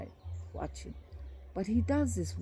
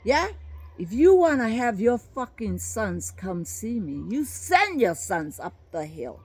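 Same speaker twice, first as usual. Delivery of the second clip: raised, louder voice throwing out a challenge; retold yell; 4 dB louder than usual. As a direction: call it out for everyone to hear, a bit louder. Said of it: "yells that in front of everybody".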